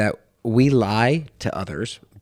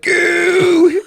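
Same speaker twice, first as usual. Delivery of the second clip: high loud mock gasp of a mom; mom's shriek; 8 dB louder than usual. Mom seeing the burnt finger, high mock shriek. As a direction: shriek it like a startled mother.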